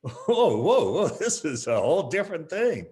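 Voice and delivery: high, loud startled backing off; alarmed whoa. Acted. Instructor startled by reversed hands, high loud whoa. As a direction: recoil from a pointed finger.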